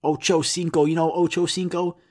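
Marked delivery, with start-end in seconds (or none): 0.0-0.9 "Ocho cinco" in a thick English accent; English-accented Spanish. Shown as a demonstration. Podcaster mocks foreign words said with English accent. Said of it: "I hate so much when people say, like, foreign words with English accents". 1.1-2.0 Spanish numbers with English vowels; English-accented Spanish. Shown as a demonstration. Podcaster mocking anglicized Spanish, English accent. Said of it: "English accents".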